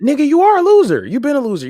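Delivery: loud, high-pitched teasing put-down; high, incredulous jab; blunt insult. Real, not acted. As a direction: blurt it out as a roast, voice shooting up. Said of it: "before I was insulted out of nowhere".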